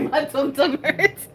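put-on slow giggly baby talk on tum tum; imitating a little kid, laughing. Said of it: "I don't believe that she actually said tum tum".

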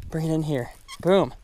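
usual speaking voice

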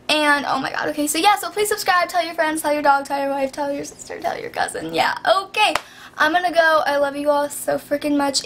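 breathless, gasping between phrases. Real, not acted. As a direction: push through short of breath. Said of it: "I'm so out of breath".

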